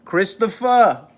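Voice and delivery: put-on slow, high, drawn-out New Jersey mob accent; hammed-up Italian-American mobster accent; Sopranos-style accent. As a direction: draw the name out in a Sopranos accent. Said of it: "that accent reminded me of my favorite show".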